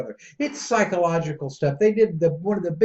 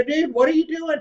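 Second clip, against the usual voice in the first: exasperated shout; 8 semitones higher than usual. Retold or imitated. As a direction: shout it like you can't believe he paid twice. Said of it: "I go".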